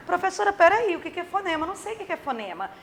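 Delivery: acted pupil's protest, high then trailing quickly; interrupting pupil. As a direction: play a puzzled student cutting in on the teacher. Voices a confused pupil interrupting.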